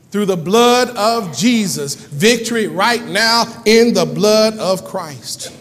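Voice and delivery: slow, drawn-out proclamation; stretched, weighty sermon climax; declarative preaching. Acted. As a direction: proclaim it word by word to the congregation.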